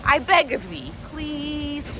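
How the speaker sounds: slow, earnest begging; passionate pleading. Real, not acted. Begging viewers to watch Eyes Wide Shut, passionately. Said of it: "Sorry, I'm getting passionate".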